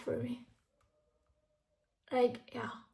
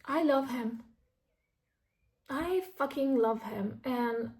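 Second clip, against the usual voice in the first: ordinary talk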